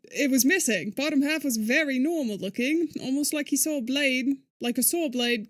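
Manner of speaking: put-on British accent for a grim description; imitation British game voice. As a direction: read it in an amateur British accent. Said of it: "this is my British accent".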